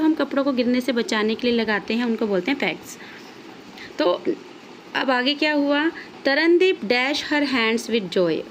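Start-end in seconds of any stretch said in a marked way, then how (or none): 6.2-8.4 reads the sentence slowly, saying the blank as dash; slow classroom reading with the gap still in; slow read-aloud. Shown as a demonstration. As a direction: read it out word by word, blank included. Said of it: "और तरनदीप क्या करने लगी?".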